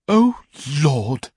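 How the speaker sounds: high, loud cry of dismay; an old lady thrown off her feet by the news; shocked old aunt. A narrator's reading. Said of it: "said my aunt".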